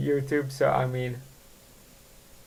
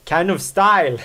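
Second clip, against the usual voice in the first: laughing; 5 semitones higher, 3 dB louder than usual. Real, not acted. Laughing at own mistakes.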